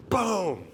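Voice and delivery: drawn-out falling "boom"; imitated bang. Coach bursts through locker room doors, drawn-out boom. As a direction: stretch out the bang of doors flung open.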